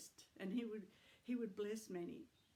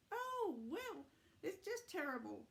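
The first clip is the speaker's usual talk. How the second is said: grandma voice; 7 semitones higher than usual. Acted. Grandma puppet voice.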